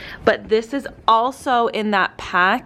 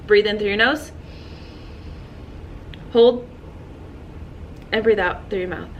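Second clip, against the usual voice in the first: guided breathing cue; 4 dB quieter than usual. Shown as a demonstration. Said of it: "let's do it again".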